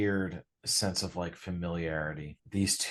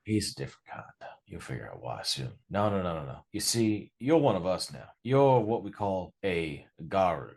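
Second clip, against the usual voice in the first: calmer New York; 3 semitones higher, 4 dB louder than usual. Acted. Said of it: "more of the New York comes out".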